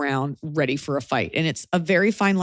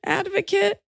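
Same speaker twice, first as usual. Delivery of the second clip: imagined reply, pitched up at the end; mock puzzled comeback; 7 semitones higher than usual. Woman imagining her reply to the Yankee remark, mock puzzled.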